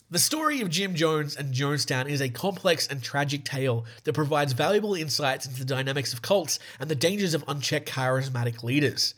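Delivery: measured documentary-style read; scripted narration. Real, not acted. Host reads the Jonestown story to listeners, scripted narration.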